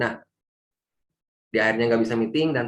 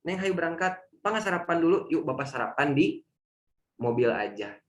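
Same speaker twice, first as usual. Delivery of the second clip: calm father; 4 semitones higher than usual. Retold or imitated. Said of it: "dia tetap tenang".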